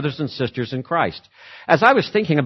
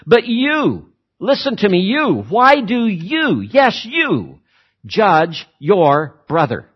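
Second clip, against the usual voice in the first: "you" hammered each time, pitch much higher; emphatic address; 4 semitones higher, slower than usual. Acted. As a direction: jab every "you" as if pointing straight at one listener. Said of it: "It's as though Paul is saying it that way".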